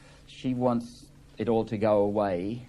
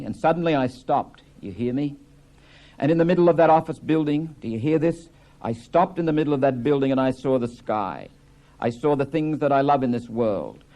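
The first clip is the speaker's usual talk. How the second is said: impassioned outburst; 3 semitones higher, 4 dB louder than usual. Acted. Biff's climactic speech.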